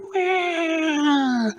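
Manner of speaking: loud, high long roar; huge scary roar; big roar. Acted. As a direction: roar with everything. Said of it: "both of 'em went".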